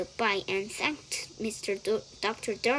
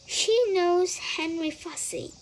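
high, louder bright reply; brightly; 9 semitones higher, 6 dB louder than usual. A narrator's reading. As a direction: answer brightly, pitched up and louder. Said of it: "said Missus Serval brightly".

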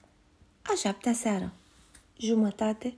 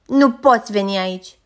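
much louder, a little bear standing tall; shout; 10 dB louder than usual. A narrator's reading. Little bear on tiptoe chasing off the stranger, shouting. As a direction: shout him away from your patch. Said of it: "și strigă".

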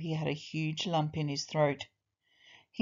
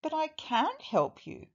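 small, high mouse voice; tiny helper piping up; little mouse; 9 semitones higher than usual. A narrator's reading. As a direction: insist gently in a little high voice. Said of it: "said the mouse".

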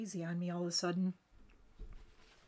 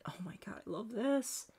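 hushed, delighted whisper; 5 dB quieter than usual. Real, not acted. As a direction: breathe it out in a whisper. Gushing over her lip look.

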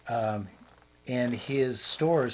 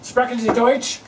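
calling out loud; 12 semitones higher, 9 dB louder than usual. Pretend. Knocking on doors calling out.

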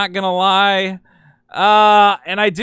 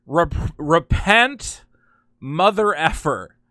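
slow, drawn-out imitation of a shouted repent; imitating the tambourine woman's yelled repent; mock protester yell; 2 semitones lower, much slower than usual. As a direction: stretch repent out like a protester yelling at him. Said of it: "I guess she was yelling".

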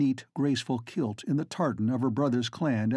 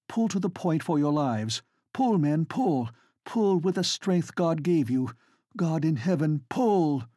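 raised, urgent rallying orders; quick commands; 4 semitones higher than usual. Acted. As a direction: drive the rowers on hard. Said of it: "she says quickly".

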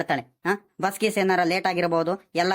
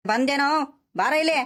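higher-pitched summons; calling out; 5 semitones higher than usual. Acted. Grandfather summons his dawdling grandson, calling out. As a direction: call the boy over, pitch raised. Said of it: "ಯಾಕ್ ತಾತ ಹಿಂಗ್ ಕೂಗ್ಕೊಂಡ್ತಿದ್ದೀರಾ".

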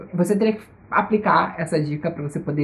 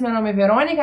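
ordinary talk

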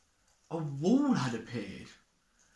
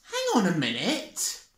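spluttering; 5 semitones higher than usual. Acted. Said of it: "spluttered Dick".

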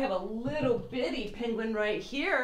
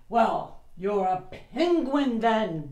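grunting; 4 dB louder than usual. Acted. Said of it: "grunted the walrus".

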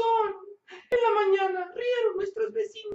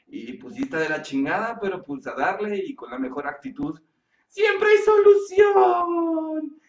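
low closing message; 13 semitones lower than usual. Acted.

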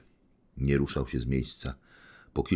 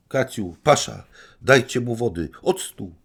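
much higher, loud urgent commands; shouting orders; 8 semitones higher, 8 dB louder than usual. Acted. Anastazja calling her maids to help Gania, loud urgent orders. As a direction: bark for water and vinegar. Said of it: "krzyknęła Anastazja Filipowna".

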